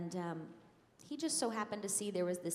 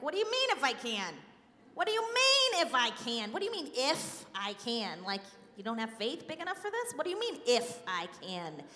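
high, loud, exasperated Italian father; hammed-up sarcastic disbelief, pitch shooting up; Italian dad's voice; 5 semitones higher, 4 dB louder than usual. Daughter says the verse as her Italian dad, loudly indignant. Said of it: "I hear my dad's voice".

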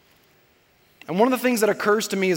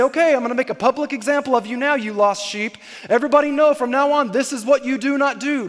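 higher, mock public scolding; mock shaming shepherd; 3 semitones higher than usual. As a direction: make a show of shaming the sheep. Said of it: "bring him back ... and say".

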